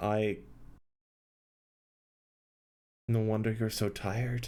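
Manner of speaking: heavy with worry, deeply concerned tone. Voicing a character with a tear forming: deep concern and worry. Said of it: "with, like, a deep concern and worry".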